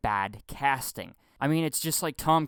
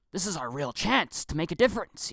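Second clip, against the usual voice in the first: a touch more power and drive; emotion and power; 4 semitones higher than usual. Shown as a demonstration. Showing how the whispered line should sound, with power. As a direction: say it like it matters. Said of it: "this is how I would do it".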